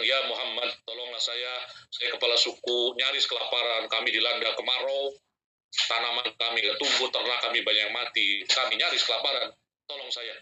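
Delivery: pleading chief. Retold or imitated. Poor chief begs the Prophet.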